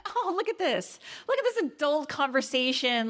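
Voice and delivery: high, excited mock gush about a grown-up talk; delighted gush. Podcaster reacting to a movie's adult talk, high delighted gush. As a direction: gush like you can't believe how mature it is. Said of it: "And I was like".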